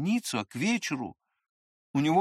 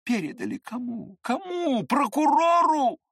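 furious demand; 10 semitones higher, 4 dB louder than usual. A narrator's reading. Narrator furious, interrogating.

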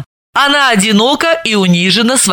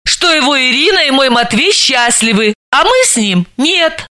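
higher, lightly voiced friend; a hint of a higher weepy voice; Dalila's voice; 5 semitones higher than usual.

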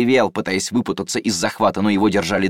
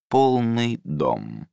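slow, calm and even; 2 semitones higher, much slower than usual. Acted. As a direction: say it coolly, unhurried. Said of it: "произнёс он спокойно".

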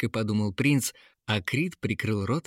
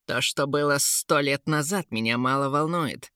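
brash dismissive king's voice; lightly voiced cheeky young king; insolent; 4 semitones higher than usual. A narrator's reading. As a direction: toss it off with open arrogance. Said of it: "нагло заявил Кейн".

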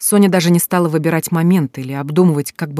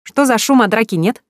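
bright singsong, much higher and louder; cheerful singsong; 6 semitones higher, 4 dB louder than usual. A narrator's reading. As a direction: sing it out cheerfully. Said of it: "радостно пропела она".

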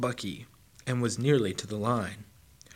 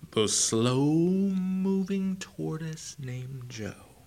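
slow drawl; 6 semitones higher, much slower than usual. A narrator's reading. Drawn out to mimic the slow tortoise.

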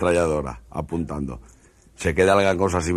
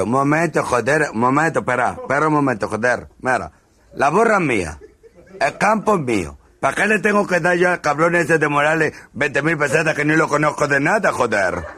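indignant protest; 8 semitones higher than usual. Acted. Moor protesting to the commander, indignant. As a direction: protest the unfair fine.

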